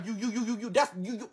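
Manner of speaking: soft, stumbling "you, you"; self-aware mock stutter. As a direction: trip over your words on purpose. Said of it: "that's what I'm stuttering".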